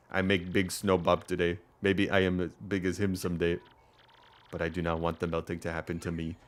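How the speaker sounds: simple villager in mock-Russian accent; rough Russian accent. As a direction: voice a snow-loving villager with a loose Russian accent. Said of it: "I can't do a Russian accent".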